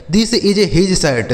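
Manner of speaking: drawn out word by word; slow dictation voice; very slow model sentence. Shown as a demonstration. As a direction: read it slowly for children. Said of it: "teacher's slow model sentence".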